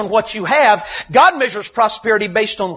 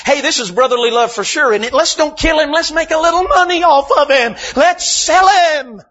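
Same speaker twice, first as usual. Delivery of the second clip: lightly voiced sibling pitching a money scheme; mock scheming brother; 4 semitones higher than usual. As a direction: tease like a sly sibling with a bright idea. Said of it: "my brother would have done the same thing and said the same thing".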